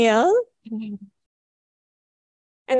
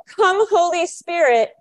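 raised, slow call for the group; 5 semitones higher, slower than usual. Shown as a demonstration. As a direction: call it out as a cue. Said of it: "I'm gonna go".

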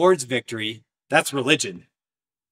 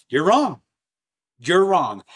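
firm rebuke; 5 semitones higher, 5 dB louder than usual. Real, not acted. Preacher rebuking.

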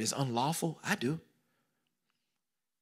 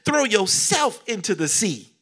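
loud slow command to the mountain; 7 semitones higher, 8 dB louder than usual. Acted. Pastor speaking to the mountain, loud slow command. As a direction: order the mountain away.

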